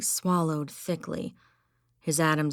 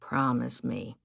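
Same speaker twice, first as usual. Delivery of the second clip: even; 3 semitones lower than usual. Acted. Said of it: "Joe said evenly".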